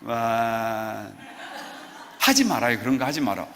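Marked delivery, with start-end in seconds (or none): 0.0-1.0 wow. Shown as a demonstration. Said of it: "저 좀 봐보세요".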